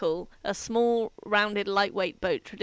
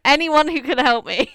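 pleading, higher and louder; mock desperate plea; 6 semitones higher, 8 dB louder than usual. Hammed-up plea, a woman falling from a cliff. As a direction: beg anyone at all for rescue.

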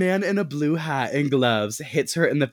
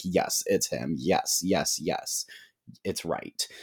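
low, hushed and eerie, fading away; hushed vision voice; 7 semitones lower, 6 dB quieter, slower than usual. Acted. Dead twin's vision whispering to Dakota, low and hushed. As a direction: murmur it like a ghost confirming the killer. Aubrey's vision voice confirming killer.

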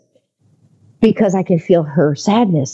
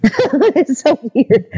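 real laugh breaking into higher, slower words; 8 semitones higher, much slower than usual. Real, not acted. Guest amused by her own unexplainable gift, laughing. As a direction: laugh as you say it, pitched up.

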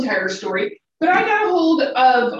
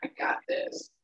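cocksure new graduate; 4 semitones higher, 4 dB quieter than usual. Retold or imitated. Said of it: "if they're like".

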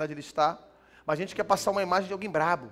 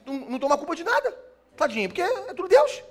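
ironic pity; 7 semitones higher, 7 dB louder, faster than usual. Pretend.

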